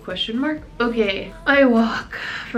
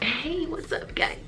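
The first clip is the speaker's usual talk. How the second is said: higher, softer mock-YouTuber hello; YouTuber greeting; 6 semitones higher, 6 dB quieter than usual. Vlogger mimicking YouTubers leaning into their video, mock greeting. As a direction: lean in with an imitation vlogger intro. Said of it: "a lot of YouTubers lean into their video like".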